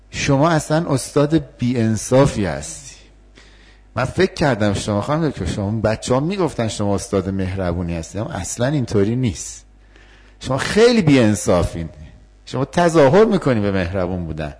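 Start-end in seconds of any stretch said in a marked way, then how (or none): 0.1-3.0 accusing student. Acted. 10.4-14.5 accusing student. Acted.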